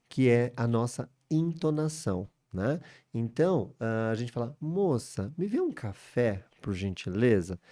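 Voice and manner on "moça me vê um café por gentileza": "Moça" and "café" pitched up, "gentileza" falling; courteous Portuguese request tune; polite request intonation. Shown as a demonstration. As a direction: lift "Moça, me vê um café", settle down on "por gentileza". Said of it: "tem a entonação da língua portuguesa".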